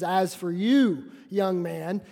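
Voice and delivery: slow, a hint of a stern mother; lightly voiced scolding mom; measured mild mock rebuke. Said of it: "she turns and says".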